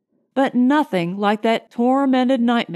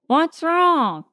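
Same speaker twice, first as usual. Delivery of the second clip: higher-pitched crew member, taken aback; stunned question; 6 semitones higher than usual. A narrator's reading. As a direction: question the leader in startled disbelief. Stunned crew challenges the leader.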